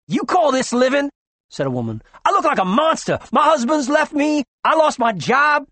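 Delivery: high, loud aggrieved complaint; woman crying out her misery at the doctor; bitter outcry. Acted. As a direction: pour out the grievance, loud.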